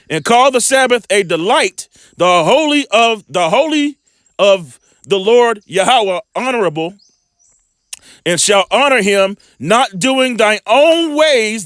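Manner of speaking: measured, slow Bible reading; preacher reading scripture aloud. Acted. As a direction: read the verse slowly like a preacher. Scripture read aloud in sermon.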